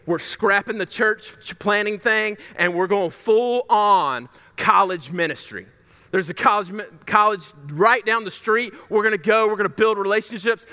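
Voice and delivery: imitating a fired-up church leader. Leader selling his new vision to staff, fired up. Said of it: "Super fired up. He goes".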